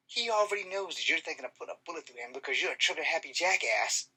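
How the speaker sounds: mildly indignant rhetorical questions; indignant challenge. Acted. Bystander confronting an armed cop over a kid, indignant. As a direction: challenge him, building to an insult.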